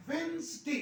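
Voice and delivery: वेडनेसडे said wenz-day, the d dropped; silent d demo. Shown as a demonstration. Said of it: "डी silent हो गया". (वेडनेसडे में डी silent, वेन्ज़डे बोलें)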